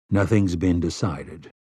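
flat, calm and unmoved; stolid. Acted. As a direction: say it without a flicker. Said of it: "Roland said stolidly".

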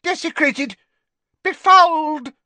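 high, building to a loud shriek; scandalised screech; hissed outrage. A narrator's reading. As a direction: hurl each word as an accusation. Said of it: "she hissed".

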